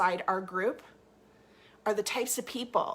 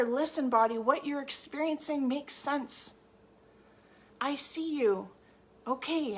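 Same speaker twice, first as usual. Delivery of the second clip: nurturing; 2 semitones higher than usual. Pretend. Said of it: "you're going to nurture her".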